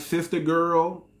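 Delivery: drawn-out mock Black American accent; slow imitation of a borrowed Black American accent; imitated Black American accent. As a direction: lightly mimic someone putting on a Black American accent. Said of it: "Y'all start speaking with a black accent".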